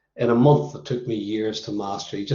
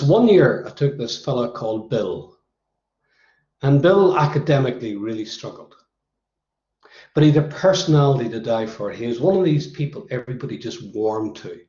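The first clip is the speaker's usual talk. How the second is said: recovering from losing his voice; husky, strained throat; hoarse voice. Real, not acted. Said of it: "my voice doesn't always sound like this".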